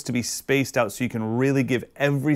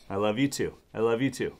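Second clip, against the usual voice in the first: tender; 2 semitones lower, 4 dB quieter than usual. Real, not acted. Tender to baby.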